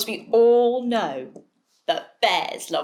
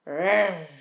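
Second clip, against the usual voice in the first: bear growl; 4 semitones lower than usual. Acted. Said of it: "they did what bears do best".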